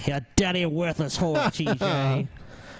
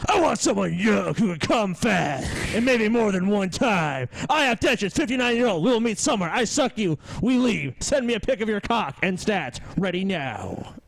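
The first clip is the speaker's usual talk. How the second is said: put-on shouting old man. Acting out old man's ad.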